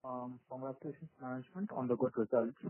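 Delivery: very faint, low volume; barely audible. Real, not acted. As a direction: far from the mic, hard to hear. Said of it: "your voice is very low".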